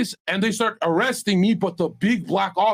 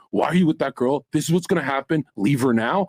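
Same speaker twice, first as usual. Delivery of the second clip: imitated friend's warning; 6 semitones lower than usual. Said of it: "he literally said to me in a dark room".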